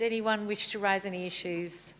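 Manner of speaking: ordinary talk, nothing marked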